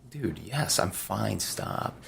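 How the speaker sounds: impatient quiet reply. Retold or imitated. To the pestering trainer, a soft impatient brush-off. Trainer keeps checking him.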